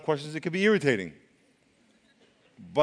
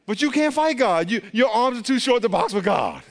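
louder, higher preaching voice; 5 semitones higher, 3 dB louder than usual. Real, not acted. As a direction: preach it out at full force. Preacher building to a climax.

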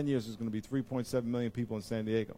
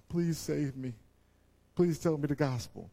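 pleading neighbor; 4 semitones higher than usual. Retold or imitated. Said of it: "you know what they're saying".

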